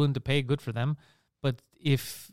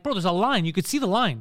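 higher-pitched mock protest; exasperated retelling; 4 semitones higher than usual. Passenger retelling a row with his seatmate, exasperated. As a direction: replay an indignant complaint to a seatmate. Retold quarrel over plane seat.

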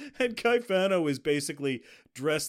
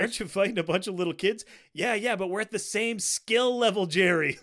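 quick, higher and louder sitcom banter; Seinfeld impression; 6 semitones higher, 6 dB louder than usual. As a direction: rattle it off like a Seinfeld bit, pitched up. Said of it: "just like Kramer and Seinfeld".

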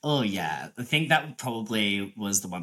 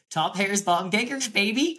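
higher, punchy catchphrase delivery; 7 semitones higher than usual. Real, not acted. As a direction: sell it like a slogan. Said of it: "Keep that".

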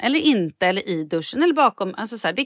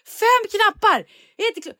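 loud rant; 12 semitones higher, 3 dB louder than usual. Retold or imitated. Ranting about five switches.

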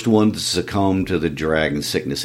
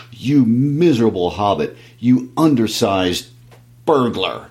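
mildly raised, sputtering insult; angry shout; 2 semitones higher than usual. Acted. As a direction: spit the insult, lost for words. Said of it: "shouted at a loss for words".

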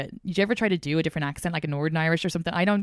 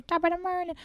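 higher-pitched gibberish parody of Americans doing Irish; mock Irish accent; 12 semitones higher, 4 dB quieter than usual. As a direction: babble a bad American attempt at Irish. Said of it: "No, 'cause they just go".

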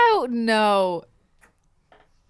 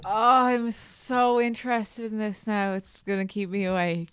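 sarcastic. Real, not acted. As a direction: say it like you're bored stiff. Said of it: "you sound like you're being sarcastic".

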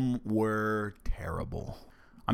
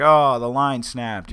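slow, louder fake alarm; mock alarm; 3 semitones higher, 6 dB louder, slower than usual. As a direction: tease the riders like a prankster captain. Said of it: "Be like".

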